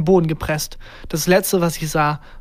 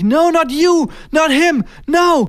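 high, loud shouts of terror; panicked scream; 11 semitones higher, 5 dB louder, slower than usual. A narrator's reading. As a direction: shriek in horror at who you see. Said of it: "Er hatte panische Angst". (panische, schrille Angstschreie)

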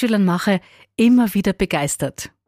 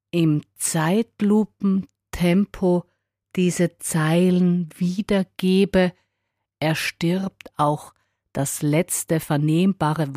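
slow motion; much slower than usual. Shown as a demonstration. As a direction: stretch every word out. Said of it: "mein Sprechtempo stetig verlangsamt".

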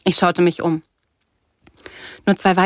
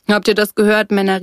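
moderately raised call to mates; 3 semitones higher, 5 dB louder than usual. A narrator's reading. Surfer mocking the girl to his men, called out. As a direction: call it out to the whole group. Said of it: "rief er".

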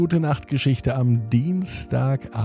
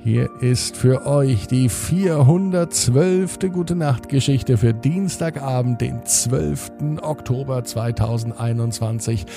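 sleep story narrator. Acted. Bedtime podcast host intro.

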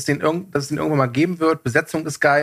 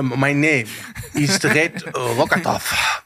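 put-on slow, light Russian accent; russian accent in german; slower than usual. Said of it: "mit so einem russischen Akzent".

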